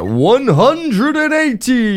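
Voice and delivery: high, drawn-out darts announcer call; darts caller. Retold or imitated. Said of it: "the guy's like".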